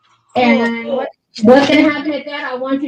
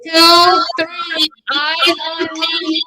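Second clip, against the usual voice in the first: sing-song call for attention; kindergarten teacher voice; 5 semitones higher, much slower than usual. Real, not acted. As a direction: call the class to attention, slow. Teacher calling class to attention.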